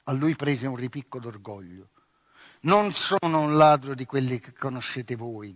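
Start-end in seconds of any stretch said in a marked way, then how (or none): 2.6-5.5 shouted. Acted. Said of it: "gridò".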